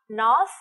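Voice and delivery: North ending with tongue between the teeth. Shown as a demonstration. Teacher shows how to say North with the tongue out. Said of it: "đưa lưỡi ra".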